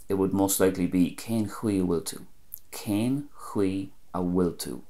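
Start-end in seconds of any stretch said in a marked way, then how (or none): 1.2-4.8 "Cén Chui a bhfuil tú" said the Galway way; Connacht Irish. Shown as a demonstration. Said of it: "In Connacht and Galway".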